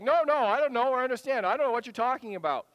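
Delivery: loud, fast, flustered protest; panicked denial. Retold or imitated. Preacher acting Peter denying it in a panic.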